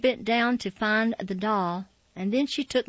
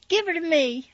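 put-on high, loud pleading cry of a small girl; desperate cry; 8 semitones higher, 6 dB louder than usual. A narrator's reading. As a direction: clutch for the doll, begging loudly and high. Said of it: "I cried, desperate".

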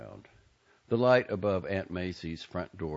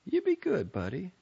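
higher, motherly Southern aunt; fond aunt's farewell; 11 semitones higher than usual. A narrator's reading. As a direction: send him off, pitched up and fond. Aunt Maisie voiced by reader.

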